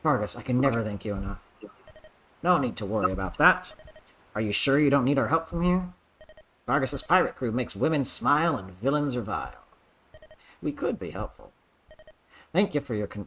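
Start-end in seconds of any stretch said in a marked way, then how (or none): 2.4-11.5 hearty pirate captain voice; lightly voiced jolly pirate. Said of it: "I just did pirate voice". 12.5-13.2 lightly voiced jolly pirate. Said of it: "pirate voice for Eliwood".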